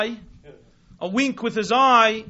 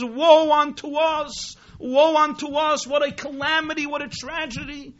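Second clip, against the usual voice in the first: mock shouted lament; 6 semitones higher than usual. Manager announcing calamity to the wedding guests, shouted lament. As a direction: cry out the disaster as a storyteller would. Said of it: "he shouts and he says".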